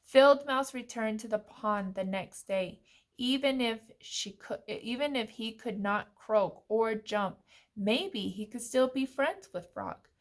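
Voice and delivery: measured picture-book reading; story narration. A narrator's reading. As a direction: read clearly to little children, phrase by phrase.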